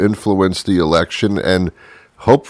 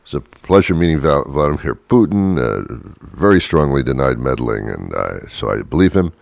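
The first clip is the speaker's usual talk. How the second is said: a hint of Trump, lower and lazy; lightly voiced president; understated Trump voice; Trump impression; 6 semitones lower than usual. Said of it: "this is the president talking".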